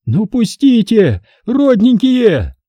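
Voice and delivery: high, slow wheedling plea; pleading. A narrator's reading. Owner begs the soldiers, slow and high. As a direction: coax them sweetly, dragging it out. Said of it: "взмолилась собственница".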